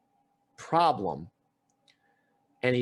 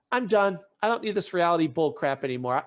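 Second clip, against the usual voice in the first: fed up; 2 semitones higher, 3 dB louder than usual. Retold or imitated. Girl walking out on housemates, louder and fed up. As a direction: slam the door on the show. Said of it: "They go, "Where are you going?".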